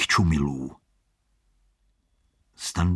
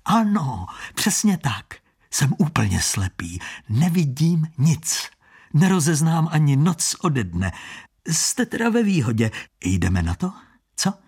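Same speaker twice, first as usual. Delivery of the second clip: a hint of a sly blind gambler, higher; lightly voiced blind trickster; 5 semitones higher than usual. Blind con man goading Standa into the game, lightly voiced. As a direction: tease him like a cocky blind hustler.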